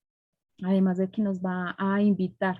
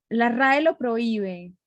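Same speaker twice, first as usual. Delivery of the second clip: slow, louder quoted pronouncement; mock scolding defender; 3 semitones higher, 5 dB louder, slower than usual. Host mimicking language purists correcting people, mock scolding. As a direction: lay down the rule in slow, emphatic mimicry. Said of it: "salen a decirle a uno".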